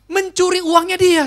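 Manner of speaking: loud and high, slow and stressed; indignant outcry. Real, not acted. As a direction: hit it like a scandal you can't believe. Outrage at theft in testimony. (seruan marah, keras dan tinggi, pelan)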